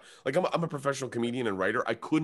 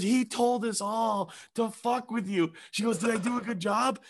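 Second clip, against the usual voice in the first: agent laughing; 12 semitones higher than usual. Retold or imitated. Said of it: "She starts killing herself laughing".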